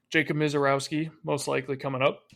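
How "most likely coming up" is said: interrupted by a hiccup. Real, not acted. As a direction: say it through the hiccups. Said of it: "Oh, I have the hiccups".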